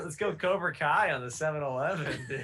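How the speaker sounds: playful hyped-up call to action; rally the gang as a joke, pitch lifted; mock rallying. Jokingly rallying chat for heist.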